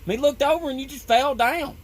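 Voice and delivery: a hint of a puzzled tall coworker explaining; Slim impression. Coworker tells the narrator he just fell down, lightly voiced puzzled. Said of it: "He's like".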